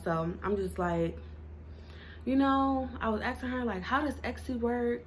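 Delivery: speech slurred by retainers; wearing a retainer. Real, not acted. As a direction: retainers in while talking. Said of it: "I got my retainers in".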